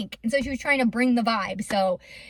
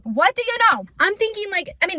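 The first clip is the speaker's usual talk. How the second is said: surprised; 7 semitones higher than usual. Real, not acted. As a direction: repeat "What do you know?" with a bright jump of surprise. Remarking on toned stomachs.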